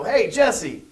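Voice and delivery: high, loud straight talk to a sulking leader; frank buddy talk. Retold or imitated. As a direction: talk sense into him like a fed-up friend. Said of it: "never get a chance to go".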